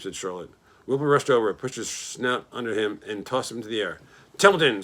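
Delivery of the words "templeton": high loud scream of a name. A narrator's reading. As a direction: scream his name to wake him. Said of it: "screamed Wilbur".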